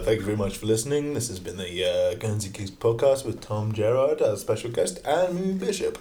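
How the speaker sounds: smooth radio host sign-off. Pretend. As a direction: wrap up the show like a DJ. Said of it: "in your best radio voice".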